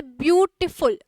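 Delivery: "ब्यूटीफुल" split as byu-ti-ful; "ब्यूटीफुल" measured syllable by syllable; three-syllable demo. Shown as a demonstration. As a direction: sound out "ब्यूटीफुल" in three beats. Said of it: "यहाँ पे तीन syllable आ रहे हैं".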